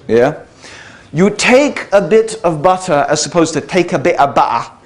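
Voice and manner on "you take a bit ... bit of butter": posh versus plain British accent. Shown as a demonstration. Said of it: "distinguish British accents".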